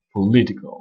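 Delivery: "political" as puh-LI-ti-cal; "political" with a short schwa first and stressed second syllable; O reduced to schwa. Shown as a demonstration. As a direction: weaken the O in "political" and hit LI. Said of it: "on prononce un E".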